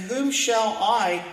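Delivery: "I" leaned on and drawn out, slow; stress on I. Acted. Preacher reading God's question, stressing "I". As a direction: weigh the word "I" to show it's singular.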